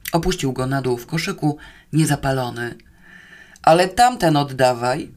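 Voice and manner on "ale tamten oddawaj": louder, resolute order; firm demand. Acted. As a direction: demand it back firmly. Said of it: "zażądał stanowczo". (stanowcze, głośniejsze żądanie)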